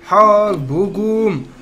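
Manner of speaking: war cry. Real, not acted. Sister declares war.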